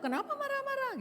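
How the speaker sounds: high, sharp imitation of a puzzled husband; mock husband. Husband asking his angry wife why, mock high voice. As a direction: toss it back like the husband would.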